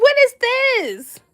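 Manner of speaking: very high, loud disgusted cry. Retold or imitated. Guest staring at the runny dish, shrieking disbelief.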